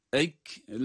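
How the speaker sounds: "Eklellemme" chanted with a long humming m; sustained recitation of "Eklellemme"; held doubled M. Shown as a demonstration. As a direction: hold the double m of "Eklellemme", then stretch the last vowel. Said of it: "mim şeddeli olduğu için tutuyoruz".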